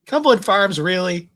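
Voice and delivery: indignant yell at the people inside; mock outraged yell. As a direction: shout it through the locked door. Banging on the door, retold.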